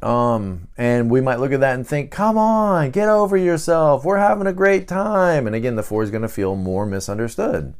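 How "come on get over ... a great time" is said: higher, impatient brush-off; dismissive cheer. Retold or imitated. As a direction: brush off the gloomy friend. Others dismissing the sad four.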